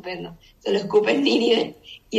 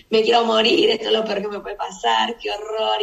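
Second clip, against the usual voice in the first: loud, whiny mock lament; mock despair; 5 dB louder than usual. Preacher playing Jonah sulking over the plant, loud whiny lament. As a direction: wail it like a sulking prophet. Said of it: "Jonás de nuevo".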